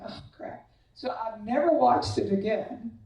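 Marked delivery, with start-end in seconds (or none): 0.1-0.7 "Oh, crap" breathed out as a toneless whisper; whispered dismay. Retold or imitated. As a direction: mutter it as your heart sinks. I'm just going.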